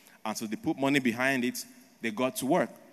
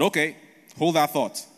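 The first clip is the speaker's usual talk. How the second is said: louder and higher, a sly eager comeback; sly British reply; 4 semitones higher, 6 dB louder than usual. Acted. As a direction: hold that thought, like you have a trick up your sleeve. British answer the Chinese refusal.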